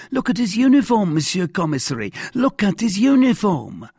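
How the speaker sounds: high, loud, agitated argument, peaking at the end; insistent cry. A narrator's reading. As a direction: argue excitedly to convince the official. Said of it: "cried Bonacieux in his turn".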